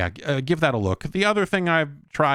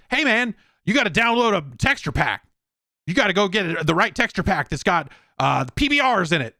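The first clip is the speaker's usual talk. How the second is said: higher, chummy know-it-all bro voice; mock the game as a matey bro lecturing you, pitched up; pushy dude; 7 semitones higher than usual. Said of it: "It's like".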